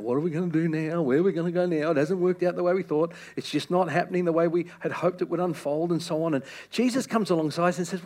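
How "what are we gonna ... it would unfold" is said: whinging. Retold or imitated. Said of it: "complaining and whinging and saying".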